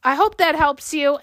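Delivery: tired, strained voice after a long day; worn-out voice; voice giving out. Real, not acted. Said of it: "I'm losing my voice".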